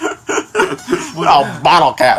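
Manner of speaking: drawn-out, slow fake Boston accent; laughing attempt at Boston; mock Boston accent. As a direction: stretch out a bad Boston accent through laughter. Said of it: "these people with these accents".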